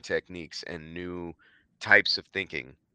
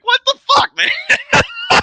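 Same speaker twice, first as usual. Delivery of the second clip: laughing disbelief; 12 dB louder, much slower than usual. Retold or imitated. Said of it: "And I was like".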